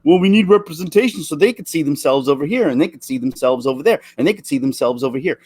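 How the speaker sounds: parroting them with a singsong rise; mocking their line. Ranting vlogger mocks Hollywood's representation talk, sing-song mocking. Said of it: "That's why they're going on about".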